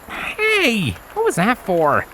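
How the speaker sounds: put-on high young stallion voice, put out; high, indignant pout; indignant Lenz. A narrator's reading. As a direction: protest like a flustered young colt. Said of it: "he asked, indignant".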